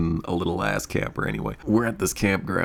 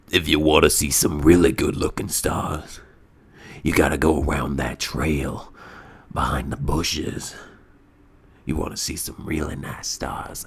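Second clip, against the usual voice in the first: lightly voiced stranger luring them down a trail; understated smoker's voice, coaxing; creepy drunk voice; 6 semitones lower than usual. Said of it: "a chain smoker voice".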